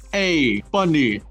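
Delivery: light Jamaican lilt on a greeting; Jamaican accent. Acted. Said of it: "very thick Jamaican accent".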